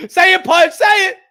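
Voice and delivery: loud, high squeal building to a climax; mock excited fanboy. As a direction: shriek it like an overexcited fan. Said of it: "That's how the fanboys be".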